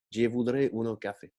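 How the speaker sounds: mock Italian accent, every syllable detached; slow fairground accent. Narrator repeats the inspector's order, slow mock Italian accent. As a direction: spell it out in a funfair Italian accent. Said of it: "lentement, avec un accent de foire et en détachant chaque, chaque syllabe".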